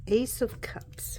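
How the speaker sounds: slow breathy whisper of the card name. Real, not acted.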